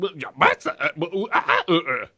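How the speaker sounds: mock glitching stutter; lagging through time. Co-host mimics Dracula's servant lagging, broken glitchy stammer. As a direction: stick on broken syllables like a frozen stream. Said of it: "again, lagging through time".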